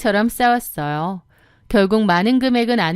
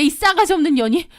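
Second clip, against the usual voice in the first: put-on higher, petulant young woman's voice; sister-in-law; 7 semitones higher than usual. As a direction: whine at her to come fetch you. Sister-in-law insults her. (높은 목소리로 투덜대는 시누이)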